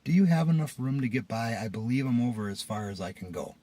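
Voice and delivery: calmed-down, measured request; polite. Retold or imitated. Driver calmly asks man to pass, polite. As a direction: ask civilly, keeping the temper in check. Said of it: "I turn and politely say".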